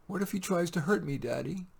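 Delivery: lightly voiced little girl. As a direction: ask like a small anxious child. Child Leah voiced.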